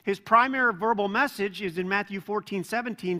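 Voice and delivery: ordinary talk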